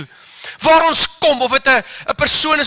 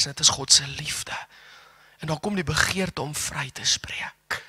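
whisper; 7 semitones lower, 8 dB quieter than usual. Acted. Preacher whispers about God's love.

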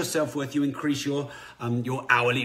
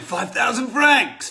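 higher and louder, slow and emphatic French price; stating the price; 10 semitones higher, 7 dB louder, slower than usual. Retold or imitated. Picasso names his price to the lady, slow and loud. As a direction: announce the fee with big deliberate weight.

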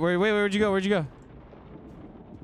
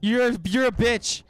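panicked; 7 semitones higher, 3 dB louder than usual. Real, not acted. Panicked, chased by monster.

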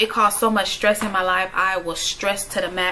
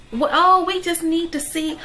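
hammed-up doctor dodging the question; mocking the doctor; 7 semitones higher than usual. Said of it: "mocking the doctor's excuse".

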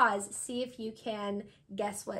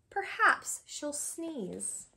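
slow refrain; 4 semitones higher, much slower than usual. Acted. Refrain read slowly.

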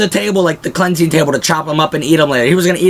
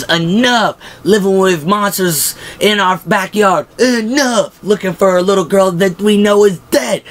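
hammed-up yell; 8 semitones higher than usual. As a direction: bellow each enough up high. Shane yelling at barn.

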